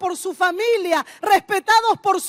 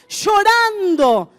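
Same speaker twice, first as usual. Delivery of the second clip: slow lament; slower than usual. Acted. Preacher laments destroyed lives.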